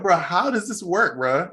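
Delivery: slow, high-pitched baffled question; amazed disbelief. Retold or imitated. Podcaster retelling his reaction to British actors' accents, amazed. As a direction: stretch out the retold astonishment. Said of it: "I'm so amazed".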